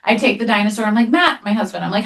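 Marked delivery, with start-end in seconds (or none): 1.1-1.4 calling out. Retold or imitated. Mom calling husband in panic.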